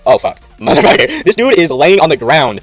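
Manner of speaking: retelling the panic with a laugh, dragging out the end slowly; shocked laughing outburst. Retold or imitated. Finding friend collapsed in bathroom.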